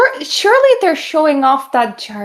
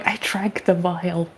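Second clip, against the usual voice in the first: low, slow, hushed confession; soft, low aside to a confidante; secretive whisper; 8 semitones lower, 7 dB quieter, slower than usual. Acted. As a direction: murmur it secretly to one person. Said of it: "I'm gonna whisper to Anya".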